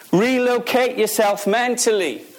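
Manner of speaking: normal talking voice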